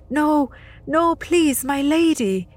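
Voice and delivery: put-on boy begs the Lady of the Dead; pleading. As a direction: beg for his life. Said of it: "he pleaded".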